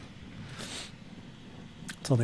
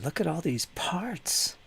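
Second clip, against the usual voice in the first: whispering; 3 semitones higher, 6 dB quieter, slower than usual. Real, not acted. Marvelling at miniature parts.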